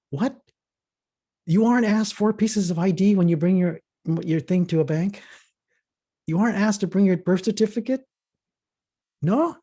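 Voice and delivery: high and loud, stunned asking; floored that others never get asked; shocked disbelief. Retold or imitated. Black man learns of ID checks.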